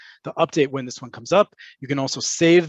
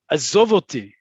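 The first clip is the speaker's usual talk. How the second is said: "Azov oti" with "zov" leaned on, then falling; last-syllable emphasis; 3 dB louder than usual. Shown as a demonstration. Telling someone this isn't play, "Azov oti" firmly stressed on "zov". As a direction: land hard on the end of "Azov" in "Azov oti". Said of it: "putting it on the last syllable".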